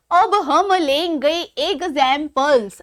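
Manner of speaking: measured, stretched-out announcement; slow, deliberate repeat. Shown as a demonstration. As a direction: spell it out slowly, piece by piece. Repeats announcement slowly, broken up.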